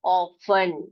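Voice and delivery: Often as low "off-un", t left out; silent t. Shown as a demonstration. Teacher answering how we read it, silent t. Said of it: "कैसे पढ़ेंगे?".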